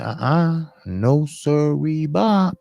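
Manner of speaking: high, drawn-out playful no sirree; emphatic refusal. Retold or imitated. Telling friends he won't walk the west side, high playful refusal. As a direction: refuse with mock sass.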